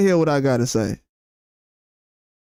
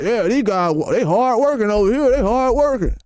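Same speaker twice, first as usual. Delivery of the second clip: higher-pitched, mildly mocking praise; mock congratulating; 4 semitones higher than usual. Streamer mimicking people who praise day laborers, mock congratulating. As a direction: imitate someone patting workers on the back. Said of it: "rubbing y'all back and congratulating y'all".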